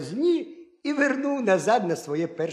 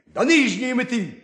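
higher, louder furious demand; beside himself with vexation; an enraged hare shouting; hare's angry shout; 5 semitones higher, 3 dB louder than usual. A narrator's reading. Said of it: "крикнув".

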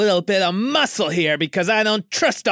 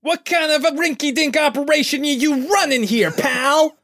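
put-on brash New York accent, louder; New Yorker accent; 11 semitones higher, 4 dB louder than usual. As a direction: tough New York guy complaining, New York accent. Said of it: "trying so hard to do the New Yorker accent".

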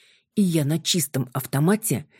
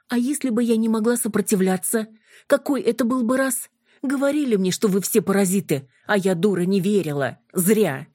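bitter reproach; 6 semitones higher than usual. Acted. Юля упрекает гипнотизёров.

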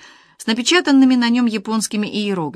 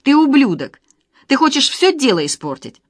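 higher, louder enraged shout; furious yell; 7 semitones higher, 6 dB louder than usual. A narrator's reading. Vika cursing her husband, furious yell. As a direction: hurl the insult at him. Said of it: "взвизгнула Вика".

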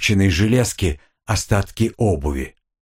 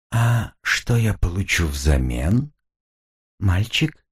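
demon voice; slower than usual. Acted. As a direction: draw out the bargain like a demon. Demon bargains, slow. (медленный низкий голос демона)

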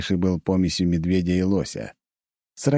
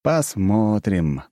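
slow sighing reply; 3 semitones higher, much slower than usual. Acted. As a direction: sigh it out slowly. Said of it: "вздохнул я".

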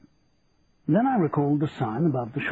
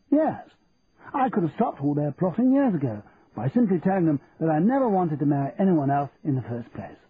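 Percy's voice; 3 semitones higher than usual. Acted. Percy's lines in story.

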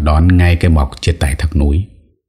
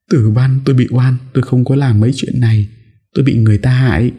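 higher, pleading, a touch of tears; tearful plea; 8 semitones higher, faster than usual. Acted. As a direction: beg him to believe you. Mỹ Lệ weeping, pleading innocence. (giọng van xin, nghẹn ngào nhẹ)

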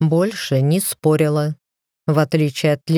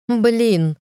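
pained exclamation; 6 semitones higher than usual. Acted. Wife yelps after slapping her husband. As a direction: shake it off with a sharp curse.

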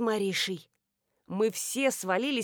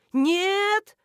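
high shouted refusal; 10 semitones higher, 3 dB louder than usual. A narrator's reading. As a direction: cry out to stop him. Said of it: "хором закричали мы".

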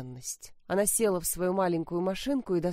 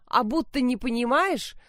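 louder, higher angry yelling; shouting; 5 semitones higher, 3 dB louder than usual. Acted. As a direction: yell it at your daughter. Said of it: "Мать заорала".

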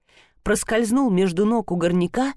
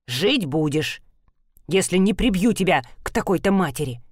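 curt statement; 2 semitones lower than usual. Acted. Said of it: "Кратко констатировал".

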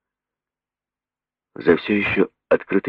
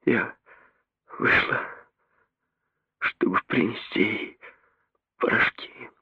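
soft, higher, voice breaking; broken whisper; 5 semitones higher, 6 dB quieter than usual. A narrator's reading. Mary blaming herself, breaking whisper. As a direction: barely get it out. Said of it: "обрывающимся голосом".

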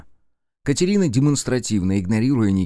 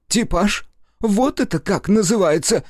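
very high, loud sarcastic cry; furious scoff; 11 semitones higher, 3 dB louder than usual. A narrator's reading. Nikitin mocking Rudnev's excuse, furious scoff. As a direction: spit the word back at him.

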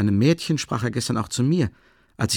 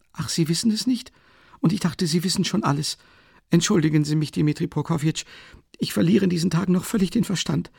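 hohe, aufgeregte Stimme einer ängstlichen Mutter; besorgte Mutter; 6 semitones higher than usual. A narrator's reading. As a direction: eine nervöse alte Mutter, etwas lauter. Mother chatters to Rasumichin. (Mutter sorgt sich um den Sohn, hoch und aufgeregt)

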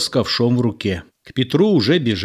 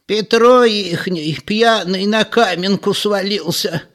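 put-on high, slow old woman's voice; old woman gossiping; 10 semitones higher, 4 dB louder, slower than usual. A narrator's reading. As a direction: explain it like a village granny. Old woman explains to a passerby.

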